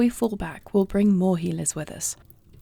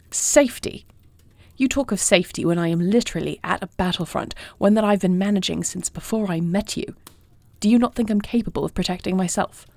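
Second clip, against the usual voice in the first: heated argument. Acted. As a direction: push back firmly against a protective partner. Acted quarrel over going to meet.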